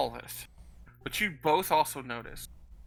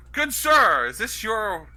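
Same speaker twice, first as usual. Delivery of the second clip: fake politeness; 3 semitones higher, 4 dB louder, slower than usual. Thief plays polite to the guard.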